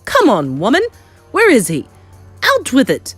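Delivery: loud, impatient shouted demands; angry demand. Acted. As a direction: fire off angry questions at top volume. Furious father demands his son.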